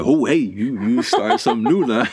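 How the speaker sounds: hammed-up startled protest; mock startled. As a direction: act caught off guard, playfully. Acting out startled reaction.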